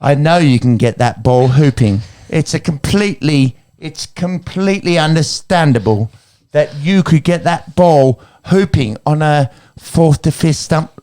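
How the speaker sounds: put-on mild motherly English accent, talking to Otis; a hint of Gillian Anderson soothing her son; Gillian Anderson impression. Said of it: "I will do the accent because why not".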